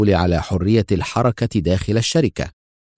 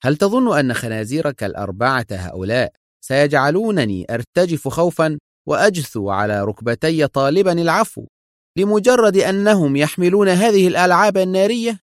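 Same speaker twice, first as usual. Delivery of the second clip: mocking question climbing much higher; defiant sarcasm, rising in pitch; sarcastic; 8 semitones higher than usual. A narrator's reading. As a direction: scoff at the threat, pitch building to the end. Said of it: "وهو يقول في سخرية".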